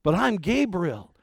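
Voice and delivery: a mock-indignant angel putting an old man in his place; Gabriel's retort. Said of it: "It's as if Gabriel was saying".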